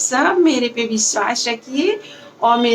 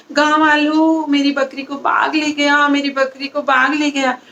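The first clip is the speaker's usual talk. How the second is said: mildly raised call, less high; calling for help; 4 semitones higher than usual. Acted. Boy calls villagers after the real tiger, mild call. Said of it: "चिल्लाता है जोर जोर से".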